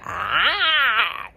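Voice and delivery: high, loud drawn-out mock scream; imitated yell. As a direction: let out a long mock cry. Imitating the doctor's cry.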